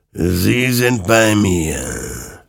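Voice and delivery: very slow, drawn-out ghostly wisp; wispering rider. Acted. Rider claims the lost comrades, eerie slow wisper. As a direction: stretch every word like a spectre. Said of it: "wisperte der Reiter".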